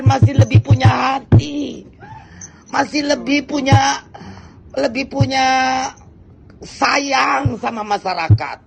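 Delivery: tearful angry outburst; crying in anger. Real, not acted. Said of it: "saya nangis karena marah". (menangis karena marah)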